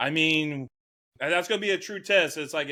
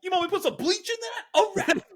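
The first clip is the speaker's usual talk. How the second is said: custodian voice. Pretend. S1 plays the custodian offering bleach, high and goofy. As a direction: squeak it out like a cheerful janitor.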